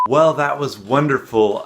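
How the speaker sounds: forced cheer. Pretend. Cheerful correction of the slip.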